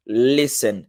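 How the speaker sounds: listen as "lesen", silent T; listen demo. Shown as a demonstration. Teacher repeating listen for students. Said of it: "tá vendo".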